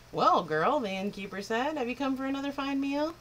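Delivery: a lightly voiced crafty innkeeper.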